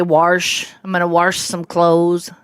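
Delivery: Wash said as warsh, Southern Missouri drawl. Retold or imitated. Daughter imitating her dad saying warsh in a Southern drawl. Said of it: "And he'd say".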